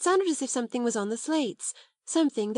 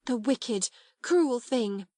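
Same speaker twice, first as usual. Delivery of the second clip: higher, indignant outburst; burst of outrage; 6 semitones higher than usual. A narrator's reading. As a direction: let the anger burst out. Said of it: "she burst forth".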